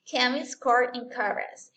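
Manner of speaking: "chemist" and "chorus" with a hard k, drawn out; ch as k, slow. Shown as a demonstration. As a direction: say each word slowly with k. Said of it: "así suena".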